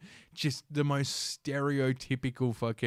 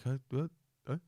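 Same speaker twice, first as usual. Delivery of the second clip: mock confusion in short grunts; baffled reaction; 2 semitones higher, 4 dB quieter, faster than usual. Charity people hearing an odd excuse, mock baffled. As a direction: imitate people thrown by an odd answer. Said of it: "you always get a funny look".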